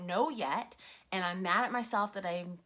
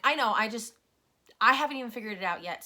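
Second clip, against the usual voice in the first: louder, fast, half-hearted annoyed reply; quick, louder imitation of snapping back; mock irritated retort; 5 dB louder, faster than usual. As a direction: rattle it off like a defensive snap at the husband. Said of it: "I kind of was rude and angry".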